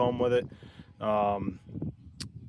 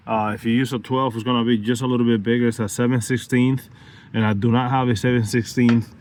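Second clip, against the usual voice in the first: loud, fast raised voice; shouting over wind; 5 dB louder than usual. Real, not acted. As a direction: raise your voice over gusts. Talking outdoors in strong wind.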